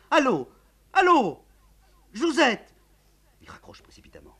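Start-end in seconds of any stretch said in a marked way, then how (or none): 0.1-2.7 higher, louder calls into the phone; calling anxiously. Acted. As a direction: call out as the line goes dead.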